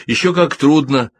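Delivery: high, loud outburst; exclaiming. A narrator's reading. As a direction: blurt it out with feeling. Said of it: "воскликнул Альберт". (громко, с жаром восклицая)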